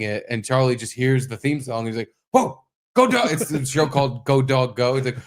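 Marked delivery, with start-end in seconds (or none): 2.3-3.3 put-on excited toddler. Toddler son voiced excitedly.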